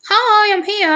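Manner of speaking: high, singsong hello; chirpy surprise greeting. Retold or imitated. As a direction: pop up with a high, drawn-out hi. Pops up in a retold chat.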